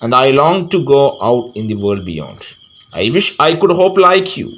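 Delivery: slow, drawn-out verse, lifting on the last line; poem recitation. A narrator's reading.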